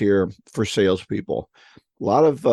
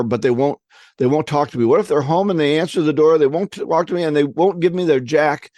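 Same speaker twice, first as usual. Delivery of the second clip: working himself up; 3 semitones higher than usual. Acted. Stranded driver fretting to himself on the walk, increasingly worked up. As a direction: let each what-if climb, more worked up. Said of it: "we work ourselves up".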